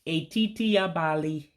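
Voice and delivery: E as ay, I as ee in "etiti abali". Shown as a demonstration. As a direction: lift "etiti", let abali come down. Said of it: "you say it sharply".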